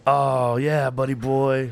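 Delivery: mock cheering on. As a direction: cheer a pal on with stretched words. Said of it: "if somebody's doing something cool".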